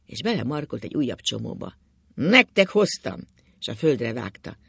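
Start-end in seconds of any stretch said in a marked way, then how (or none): 2.1-3.2 loud, high and drawn out; drunken shout. A narrator's reading. Drunk husband flinging money down for the family, shouting. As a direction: shout each word slowly and forcefully. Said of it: "kiabált Ákos".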